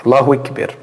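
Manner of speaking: Allahu EKBER with E vowels in place of A; incorrect pronunciation. Shown as a demonstration. Teacher repeats the wrong form for students, E vowels. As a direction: repeat the mistake, saying "Ekber" for Akbar. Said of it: "Tu falar incorretamente é tu falar assim".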